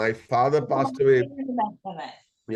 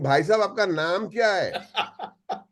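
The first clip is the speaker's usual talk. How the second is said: higher, louder blurted question; 6 semitones higher than usual. Retold or imitated. Fan loudly asks the actor his name, higher and louder. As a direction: blurt it out for the whole plane to hear. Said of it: "he spoke so loudly".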